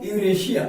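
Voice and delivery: यूरेशिया, with a palatal sh before the final -iya. Shown as a demonstration. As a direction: say यूरेशिया, as yu-re-shi-ya. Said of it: "क्या पढ़ेंगे इसको हम?".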